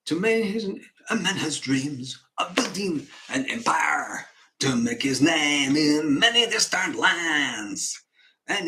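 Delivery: lightly voiced grandiose foreign businessman; Von Hassler, grandiose client. Client boasts to the banker of his empire, grandiose. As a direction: proclaim it like a man selling an empire.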